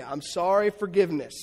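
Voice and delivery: lightly voiced child saying sorry; son's apology. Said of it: "he always says the same thing".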